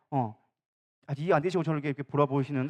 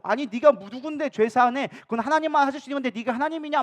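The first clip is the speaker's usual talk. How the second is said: mock indignant Pharisee; 4 semitones higher than usual. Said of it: "바리새인들은 화가 났죠".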